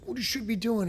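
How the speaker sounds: hammed-up, high-pitched drunken coaching; mock drunk loudmouth. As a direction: mimic a tipsy armchair expert. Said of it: "he can't handle his alcohol".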